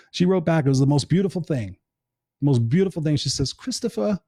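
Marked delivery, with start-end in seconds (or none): 3.5-4.2 put-on higher-pitched try at an English accent; attempted English accent. Host quoting his friend's reply, attempted English accent. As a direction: imperfectly imitate an English woman's accent. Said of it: "I can't do her accent".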